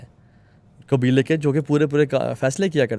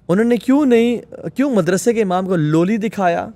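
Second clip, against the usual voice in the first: higher, louder challenge on کیوں; indignant question; 4 semitones higher, 3 dB louder than usual. Real, not acted. Guest challenges parents, louder and indignant. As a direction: press the why hard. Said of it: "indignant rhetorical question".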